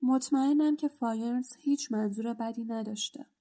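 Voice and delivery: understated grieving plea; sorrowful. Acted. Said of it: "با حالتی اندوهگین گفت".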